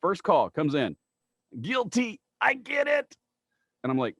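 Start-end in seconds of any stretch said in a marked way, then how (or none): 1.6-3.2 high, teasing caller voice; mocking caller. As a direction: needle him with a high sing-song "guilty". Caller's joke, quoted.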